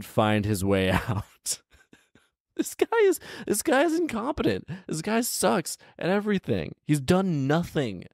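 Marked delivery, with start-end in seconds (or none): 2.6-8.0 squeaky high disbelieving rant; high-pitched incredulous scorn; exasperated mockery. Real, not acted. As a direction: roast the hapless hero. Mocking the incompetent hero.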